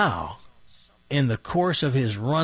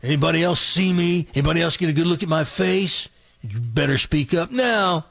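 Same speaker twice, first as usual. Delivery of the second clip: higher-pitched acted threat; menacing robber; 4 semitones higher than usual. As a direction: challenge the hostages as the robber in charge. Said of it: "he's bossing everybody around".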